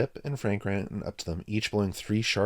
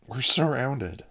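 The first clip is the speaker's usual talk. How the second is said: high, loud panicky gasp; hysterical panting; 6 semitones higher, 7 dB louder, slower than usual. A narrator's reading. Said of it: "Mike panted hysterically".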